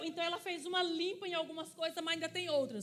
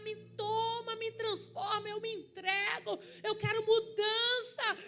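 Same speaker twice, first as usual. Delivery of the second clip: higher, pleading call to God; raised, earnest plea, slowing at the end; retold pleading shout; 6 semitones higher, 4 dB louder, slower than usual. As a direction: beg to be transformed, crying out. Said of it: "ela começou a gritar".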